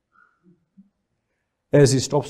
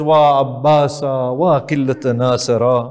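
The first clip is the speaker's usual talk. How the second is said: louder mourning wail in Arabic; lamenting cry; 4 dB louder than usual. Acted. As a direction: cry out the lament for a lost brother. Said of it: "She cries out and beats her face".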